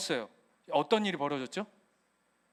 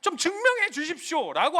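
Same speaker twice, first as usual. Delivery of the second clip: complaint and lament; 4 semitones higher, 3 dB louder than usual. Retold or imitated. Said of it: "하는 원망과 한탄과".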